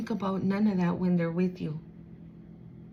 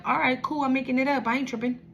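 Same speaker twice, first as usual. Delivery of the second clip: higher-pitched, unbothered comeback; 4 semitones higher, faster than usual. Acted. Answering someone who says you're making it up, unbothered. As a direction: shrug off the accusation in a raised voice. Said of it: "So don't you ever back down".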